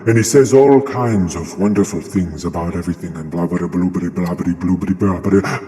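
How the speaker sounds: mock philosopher's nice lecturing voice; measured lecture rolling into blah-blah babble; Alan Watts. Streamer imitating a philosopher from YouTube videos, mock-lecturing voice. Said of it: "a very nice voice".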